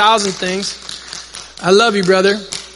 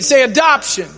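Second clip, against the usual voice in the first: firmer, more emphatic call to repeat; like you mean it; 2 semitones higher than usual. Shown as a demonstration. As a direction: prompt the crowd with conviction. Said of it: "Say it like you mean it".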